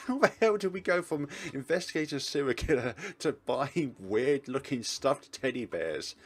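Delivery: high, loud exasperation breaking into laughter; laughing disbelief. Acted. Investigator stuck buying teddy bears, laughing disbelief. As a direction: laugh hard, then rant in disbelief. Cracks up over the absurd scene.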